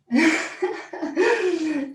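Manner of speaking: quick amused laugh; short laugh. Real, not acted. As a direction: laugh lightly at the image. Laughs at the dragon image.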